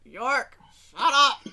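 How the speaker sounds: sleepy, loud "shut up"; groggy shout. Acted. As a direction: yell from half asleep. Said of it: "a groggy voice come from Martha going".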